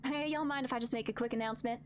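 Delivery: a young Southern councilwoman, lightly voiced; Southern accent, lightly put on. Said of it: "I'll give her a southern accent".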